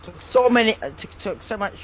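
half-hearted Scottish accent attempt; failed Scottish accent. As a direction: try a Scottish accent and fumble it. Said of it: "I can't do a fucking Scottish accent".

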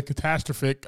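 catastrophic stressed on TAS, as ca-TAS-tro-phic; same mispronunciation. Real, not acted. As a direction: say catastrophic with the second syllable stressed. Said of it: "I said it again".

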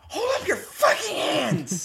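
high, loud yelling threat; robber shout. Acted. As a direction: bark it like a stoned robber. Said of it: "And he goes".

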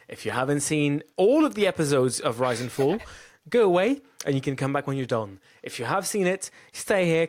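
host reading the show open; podcast intro. Acted.

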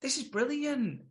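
mock excitement. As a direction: gush like the cast thinks it's lovely. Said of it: "And everyone's like".

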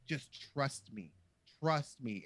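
softly reassuring, slowing down; mock-soothing, soft and slow coaxing; George Lucas. Director coaxing an uncomfortable actress, mock reassuring. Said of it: "George reassured me".

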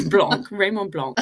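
Blanc repeated the French way, laughing; French pronunciation. Shown as a demonstration. Host retries the name in French after correction. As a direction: say Raymond Blanc with a French accent. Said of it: "Sorry for not saying that in a more French accent".

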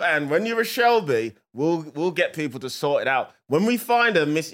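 slow, gruff Peaky Blinders Brummie gangster; slow menacing Peaky Blinders Brummie. Retold or imitated. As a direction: deliver it like a Peaky Blinders hard man, slowly. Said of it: "I'm doing it in Peaky Blinders style".

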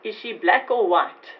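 put-on Afrikaans accent. Hospital clerk questioning her, lightly voiced Afrikaans accent. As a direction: retell the clerk's words in a mild Afrikaans accent. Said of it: "in a very strong Afrikaans accent".

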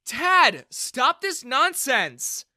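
a daughter yelling at her father; shouting to stop. Acted. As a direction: cut him off hard. Bella rushes in to stop him.

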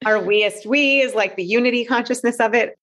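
laughing through the words; real amused laugh mid-phrase. Real, not acted. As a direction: giggle as you coin the word. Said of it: "I'm laughing 'cause".

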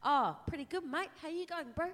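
casual Kiwi twang, lightly done; Kiwi accent. Pretend. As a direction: greet your mate like a New Zealander, hamming it up. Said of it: "This is my Kiwi accent".

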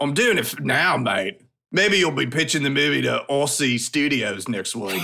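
put-on amateurish Aussie accent; Australian accent. Host insists to co-hosts he is doing it, bad Australian accent. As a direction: attempt a rough, hammed-up Australian accent. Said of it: "do your Australian".

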